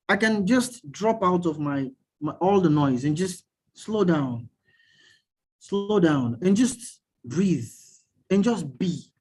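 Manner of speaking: slow and spacious, pausing between phrases; slow, calming. Real, not acted. Meditation coach describing unplugging from noise, slow and calming. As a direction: let each step settle before the next, unhurried.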